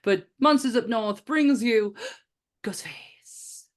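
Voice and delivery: dramatic announcer. Acted.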